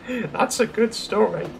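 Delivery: high, smug giggle into the words; chuckling. A narrator's reading. Daisy gloats over her fitter excuse, chuckling. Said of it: "she chuckled".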